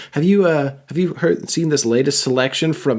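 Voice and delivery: high, eager sales pitch; an overeager bookseller recommending a novel; pushy book salesman. Retold or imitated. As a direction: pitch the latest book like a chirpy clerk. Book-pushing wrestler offers reading.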